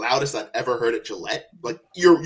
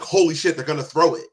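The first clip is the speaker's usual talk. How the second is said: excited; 4 semitones higher, 4 dB louder than usual. Retold or imitated. Retold excited reaction to play.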